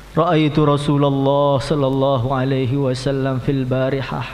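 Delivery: slow, lightly voiced Bilal reciting in Arabic; a hint of a grieving Bilal, drawn out; Bilal telling his dream. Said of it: "Saya tadi malam jumpa dengan Nabi". (suara Bilal yang pelan dan berat, sedikit diperankan)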